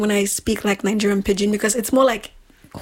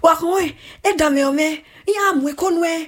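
mock scolding; 6 semitones higher than usual. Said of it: "when they say".

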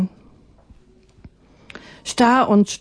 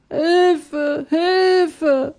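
drowning people crying for help; 8 semitones higher than usual. Acted. Drowning people calling to Atanga, high and pleading. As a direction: cry for help from the water. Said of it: "trieben Menschen und Tiere und schrien".

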